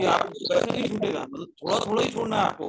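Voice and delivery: clipping distorted mic. Real, not acted. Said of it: "आपकी आवाज फट रही है सर".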